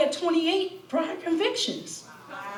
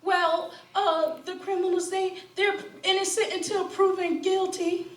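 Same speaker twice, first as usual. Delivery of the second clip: mocking quote; 5 semitones higher, 6 dB quieter than usual. Mocking officials in Delaware.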